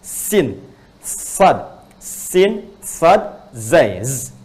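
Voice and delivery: sin, sad and zai spelled out, rising in pitch; teacher demonstrating letters; letter names demo. Shown as a demonstration. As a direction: call out the letters one by one. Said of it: "Sin, sad dengan zai itu di ujung lidahnya".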